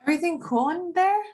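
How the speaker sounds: weaselly, fast and high; Simone's voice. Acted. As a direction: play the slippery weasel checking in. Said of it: "go ahead and do Simone".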